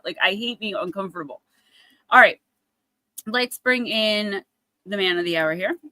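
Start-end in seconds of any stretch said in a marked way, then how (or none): none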